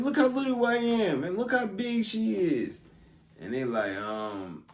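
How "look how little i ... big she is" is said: much higher, squeaky mock plea of a small woman; mock small scared voice. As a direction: play it up as tiny and helpless. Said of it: "She said".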